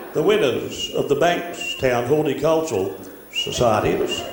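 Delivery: slow, lightly voiced garden-show announcer; a hint of a stately gardening club speaker; gardener voice. Gardening society president announcing winners, slow mild gardener voice. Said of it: "gardeners all talk like this".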